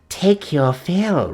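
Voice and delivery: slow sinister croak, word take drawn out; slow gloating croak; croaking witch. A narrator's reading. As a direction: croak it slowly like a gloating hag. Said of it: "croaked Gagul".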